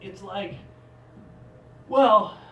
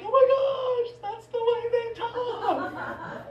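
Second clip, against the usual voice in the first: hammed-up awe with laughter; mock amazement. Tourist marveling at how Parisians talk.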